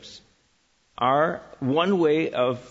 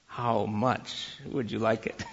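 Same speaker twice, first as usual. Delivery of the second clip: slow, softer question through a laugh; laughing tease; 3 semitones lower, 5 dB quieter, slower than usual. Real, not acted. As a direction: tease him while laughing. Teasing the volunteer, laughing.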